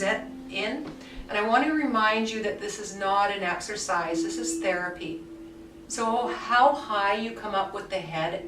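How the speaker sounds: calm guided movement voice with unhurried pauses; guided relaxation. Acted. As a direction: lead the class gently through the movement. Guides a guided body-awareness session.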